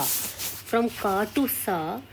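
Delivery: teacher slowly contrasting "ka" and "sa" for the C sound; ka then sa. Shown as a demonstration. French teacher to students showing "ka" turning into "sa", slow. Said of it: "if I want to change the sound of C A".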